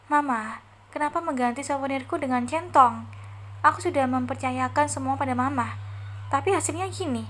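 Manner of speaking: whiny daughter complaining, pitch rising; mildly whiny protest. Acted. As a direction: complain to your mother. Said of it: "keluh Delia".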